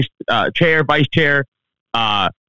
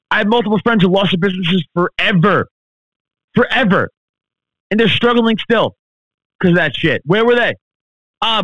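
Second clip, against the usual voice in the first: angry rant; 3 semitones higher than usual. Real, not acted. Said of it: "Sorry, I went on a rant".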